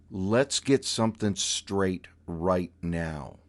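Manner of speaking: slow, deliberate laying down the law; stern warning. Retold or imitated. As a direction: lay down the law word by word. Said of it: "probably dropped a couple octaves".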